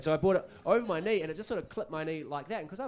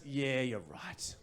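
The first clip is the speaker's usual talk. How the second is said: slow, drawn-out put-on agreement; agreeing colleague; 4 dB quieter, much slower than usual. Colleague agreeing in a meeting, slow put-on voice. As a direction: draw it out well below a shout. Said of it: "And someone goes".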